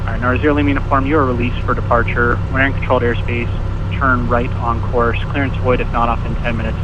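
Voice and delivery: phone-line audio, narrow and thin; over a landline phone. Real, not acted. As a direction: controller talking through a phone line. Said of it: "I'm on the landline".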